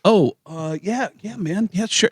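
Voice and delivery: reluctant Lars. Retold or imitated. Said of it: "And it's like".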